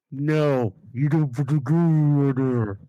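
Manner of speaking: put-on lightly done Middle Eastern accent. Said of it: "to a Muslim Middle Eastern accent".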